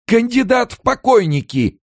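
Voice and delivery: high, loud frenzied shriek; raging. A narrator's reading. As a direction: rage out of control. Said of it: "бесновался Амерс".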